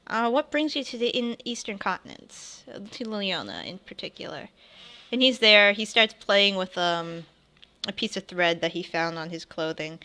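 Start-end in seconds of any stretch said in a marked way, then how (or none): 0.0-4.5 higher, eager stranger; raised pitch curious traveler; curious NPC voice. Acted. Tiefling NPC talking.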